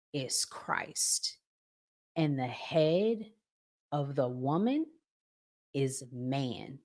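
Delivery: slow, measured Bible reading; scripture reading. Acted. Host reading Corinthians to viewers, slow and measured. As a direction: read the verse deliberately.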